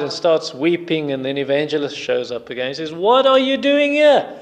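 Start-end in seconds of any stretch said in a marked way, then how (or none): 2.9-4.3 high-pitched, indignant challenge; acted rebuke. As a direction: confront him as if caught where he shouldn't be. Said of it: "he rebukes Christian".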